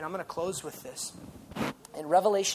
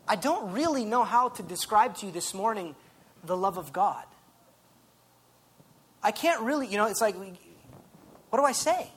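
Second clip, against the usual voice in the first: rising, louder pulpit preaching with slowed peaks; 3 semitones higher, 3 dB louder than usual. Acted. Preacher pleading with the congregation about God's love, impassioned preaching.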